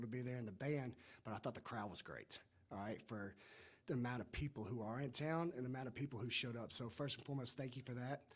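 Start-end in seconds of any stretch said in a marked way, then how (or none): 1.4-8.2 hoarse, voice nearly gone. Real, not acted. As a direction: speak with a worn-out hoarse voice. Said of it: "I've lost my voice".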